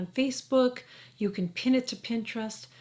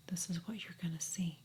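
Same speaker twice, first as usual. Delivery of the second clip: whispered, softer, like a secret; hushed whisper; 3 semitones lower, 10 dB quieter than usual. Real, not acted. Vlogger showing viewers her skin close up, whispering. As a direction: lean in and breathe it.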